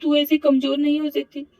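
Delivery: Avni bracing herself. Acted. Avni voiced by narrator.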